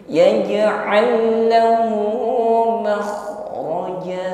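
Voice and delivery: chanted "يجعل له" merged into one doubled l; "يجعل له" recited high, leaning on the joined l; pressed double lam. Shown as a demonstration. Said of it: "Langsung ditekan pada huruf lam yang kedua".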